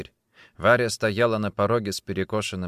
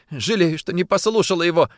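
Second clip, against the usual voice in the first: higher, louder weepy lament; tearful regret; 8 semitones higher, 5 dB louder than usual. A narrator's reading. Woman regrets ignoring his advice, tearful. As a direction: lament with mild tears. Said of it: "плакала Варя".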